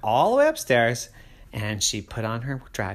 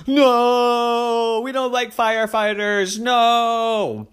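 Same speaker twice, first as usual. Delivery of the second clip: firm no; 10 semitones higher, 6 dB louder, much slower than usual. Acted. Dragon rejects firefighters.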